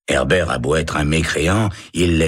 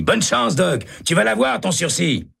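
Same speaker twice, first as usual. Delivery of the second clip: high shouting well-wisher; shouted. A narrator's reading. Hennessy calls good luck to Herbert, high shout. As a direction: call it out high and eager. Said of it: "crie Hennessy".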